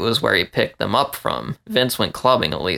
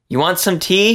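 calling out; 8 semitones higher than usual. Acted. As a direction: call to the roommate in the next room. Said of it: "she called out to Vince".

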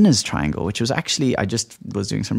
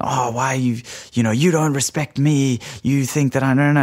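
higher, lightly accusing complaint; a touch of hurt accusation; mock frustrated victim; 5 semitones higher than usual. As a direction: act out a victim turning bitter, half-hearted. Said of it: "frustrated by the feeling of being a victim".

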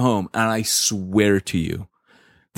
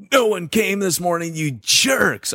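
mock indignant; 10 semitones higher than usual. Angry thought in church parking lot.

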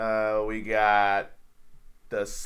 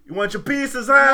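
high, fake Boston accent; mock Boston accent; 11 semitones higher, 8 dB louder than usual. Retrying the line after correction, mock Boston accent. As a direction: put on a badly faked Boston accent. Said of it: "just like the characters in The Departed".

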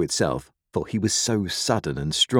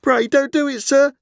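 put-on very high, loud child's plea; terrified pleading; 6 dB louder than usual. A narrator's reading. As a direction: beg for your life as a small frightened boy. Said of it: "I pleaded in terror".

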